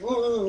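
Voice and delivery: high mock "ooh" of panic; freaking-out wail. Retelling the old man's reaction, mock freaking-out wail. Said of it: "freaking out himself".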